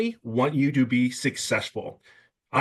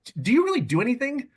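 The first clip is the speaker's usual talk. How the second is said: teasing neighbor; 12 semitones higher than usual. Retold or imitated. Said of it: "people like".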